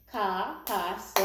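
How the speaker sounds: "Capacity" in separate beats, ca-pa-ci-ty; syllable by syllable. Shown as a demonstration. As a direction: clap out "Capacity" with a gap after each syllable. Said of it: "Let's start with the syllables".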